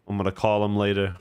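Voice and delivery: put-on light Boston accent, R's dropped. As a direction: drop the R in later, Boston style. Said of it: "add a Boston accent to the end of that".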